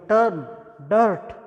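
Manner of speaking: टर्म with the er sound; model pronunciation. Shown as a demonstration. Teacher to students, demonstrating the er vowel. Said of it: "ये है इस sound के example".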